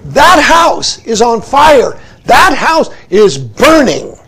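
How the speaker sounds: slow, loud retold shout of warning; a king calling urgently through the windows, loud and slow. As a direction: call them out of the burning house. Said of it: "he shouts and says".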